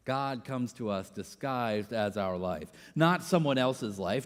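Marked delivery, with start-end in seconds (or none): 0.1-2.7 soft reflective repeat. Shown as a demonstration. Preacher repeating Rohr's line, soft and reflective. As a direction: say it again quietly as if to yourself.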